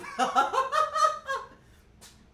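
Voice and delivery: very high, loud laughing shriek. Real, not acted. Streamer shrieks with laughter at the shorts request. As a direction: let a shrieking laugh rip.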